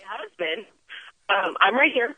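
bad phone line cutting out; choppy cell connection dropping words; breaking up phone line. Real, not acted. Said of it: "Oh, you're breaking up".

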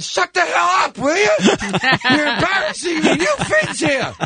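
very high, strained mock scolding; high exasperated scolding. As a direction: squeak out an embarrassed telling-off. Retold scolding of girlfriend.

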